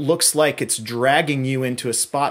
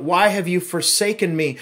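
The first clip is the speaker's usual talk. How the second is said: louder, anguished cry of the quote; 6 semitones higher, 6 dB louder than usual. Retold or imitated. Pastor voicing Jesus' cry from the cross, loud. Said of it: "His voice called out".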